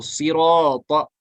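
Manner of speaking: सिरात slow, closing firmly on the त; correct सिरात. Shown as a demonstration. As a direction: hold सिरात and stop on the त. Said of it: "सिराता पढ़ा तो ये बिल्कुल गलत".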